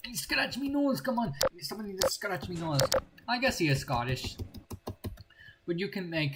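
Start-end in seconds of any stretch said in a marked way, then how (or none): 0.1-2.8 put-on high whiny pirate accent; pirate talk. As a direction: moan like a pirate with an itch. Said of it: "It's just pirate talk".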